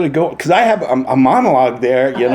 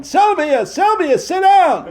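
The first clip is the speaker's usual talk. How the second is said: high-pitched heckling shout; impatient crowd calling out; audience yelling. Retold or imitated. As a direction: yell at her across the theater. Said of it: "the audience starts yelling".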